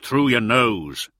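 slow, loud, insistent reminder; firm reminder. A narrator's reading. Firmly reminding the swaddled uplander how to breathe. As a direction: stress it slowly and loudly. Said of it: "he reminded".

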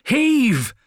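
high, loud drawn-out heave; shouted command. A narrator's reading. Corvo driving his men at the statue, shouted command. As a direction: shout to time the push. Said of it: "shouted Corvo".

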